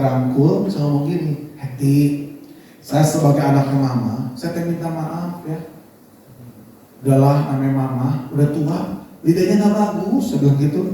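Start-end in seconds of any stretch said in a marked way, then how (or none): 1.6-10.2 low, tender reassurance; retold gentle apology. Husband hugs wife and apologises for mama, gentle and low. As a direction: soothe her without raising the voice. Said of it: "kalau lagi marah, jangan dibentak".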